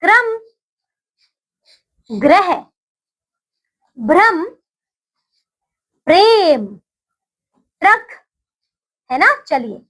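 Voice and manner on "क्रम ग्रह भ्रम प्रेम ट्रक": put-on slow, clearly spaced words for children to repeat; teacher's call-and-repeat drill; repeat after me. Shown as a demonstration. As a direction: say each word cleanly, pausing for the class to echo. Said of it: "मेरे साथ मिलकर इनका उच्चारण करेंगे".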